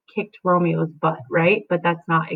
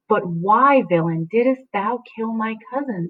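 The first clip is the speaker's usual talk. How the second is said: accusing question; 4 semitones higher than usual. Acted. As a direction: press the question why. Juliet questioning.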